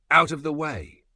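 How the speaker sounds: high, loud command to clear out; bellowed order. A narrator's reading. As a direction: shove the others aside with your voice. Big man steps forward.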